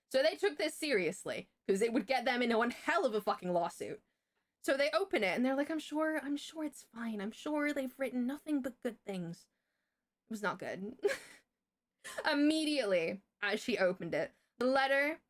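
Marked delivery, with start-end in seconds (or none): 5.7-9.5 imitating soothing office staff, higher; lightly placating, pitched up a little; mild reassurance. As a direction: play the unworried official. Office staff reassuring her, acted out.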